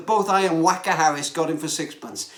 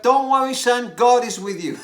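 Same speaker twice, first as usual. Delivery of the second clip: mock father calling upstairs, higher and louder; father shouting up; 4 semitones higher, 5 dB louder than usual. Father calling up to his son, mild mock shout. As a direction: call up the stairs reassuring the boy. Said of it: "his father shouted up".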